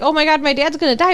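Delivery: mock panic, high and rushed; lightly acted alarm; retold freaking out. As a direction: blurt it quickly, imitating a frightened daughter. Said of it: "Joey is freaking out".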